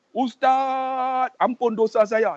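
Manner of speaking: long drawn-out call, then plea; mock-pleading for forgiveness; retold plea. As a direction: call out imploringly, stretching the first word.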